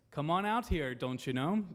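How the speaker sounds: light Minnesota "don't you know" twang; a quick upper-Midwest impression; Midwestern accent. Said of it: "Can you do that Midwestern accent again?".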